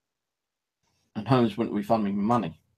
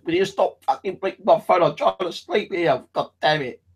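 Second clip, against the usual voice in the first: high angry retold shout; angry yell; 8 semitones higher, 4 dB louder than usual. To the group at night, a retold angry yell. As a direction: yell it at the phone, fed up. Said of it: "I said".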